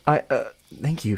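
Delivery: hesitant thanks in your own voice; hesitate, then thank them simply; unsure, regular voice. Acted. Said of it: "I'm just gonna use regular voice".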